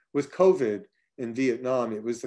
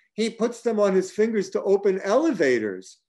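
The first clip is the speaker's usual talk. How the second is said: higher, louder laughing shriek, held back; mock shriek; 8 semitones higher, 5 dB louder than usual. Han at the table, squealing the condom story in a mock shriek. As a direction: squeal the gossip out. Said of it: "Han shrieked".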